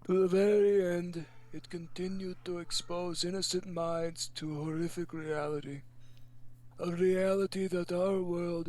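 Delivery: put-on slow, solemn old man reading a letter; lightly voiced grandpa reading slowly; grumpy old man. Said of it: "should you old man voice this".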